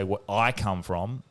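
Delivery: slow, low WHERE I COME FROM, voice rising at the end; drawn-out sample phrase, left hanging on FROM; slow citing of the phrase. Shown as a demonstration. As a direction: lay out "Where I come from" slowly as an example. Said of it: "if I say".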